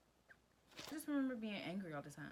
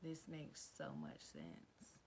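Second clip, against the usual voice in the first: mock realization; 4 semitones lower, 9 dB quieter, much slower than usual. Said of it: "'cause I'm like".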